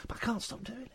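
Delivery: involuntary high-pitched voice; that annoying voice. Real, not acted. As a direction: slip into the high voice you can't stop. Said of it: "when I do this voice".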